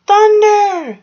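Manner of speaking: very high, loud terrified scream. A narrator's reading. Franklin hearing thunder crash, very high loud terrified scream. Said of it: "he screamed".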